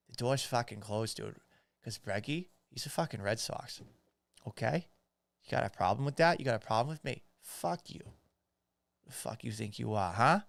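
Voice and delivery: put-on tough-talking Boston accent; mock-belligerent Boston local. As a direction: pick a fight in a Boston accent. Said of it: "him doing a Boston accent".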